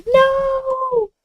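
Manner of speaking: high drawn-out mock "no"; mock wail. Streamer reacting to an ad as she messages, mock wail.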